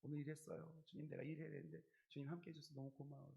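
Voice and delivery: soft, intimate chat with God; talking to God. Shown as a demonstration. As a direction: speak to the Lord like a close friend. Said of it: "정말 소리 내서".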